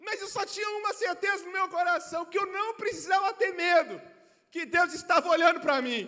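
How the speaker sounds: loud, ringing, shouted preaching; preaching at full force. Real, not acted. Pastor telling the church not to fear, shouting with fervor. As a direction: drive it home to the congregation. Sermon climax.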